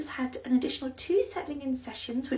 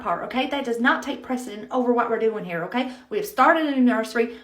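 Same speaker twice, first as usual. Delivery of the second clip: scolding; 6 dB louder than usual. Acted. Manager scolds employee.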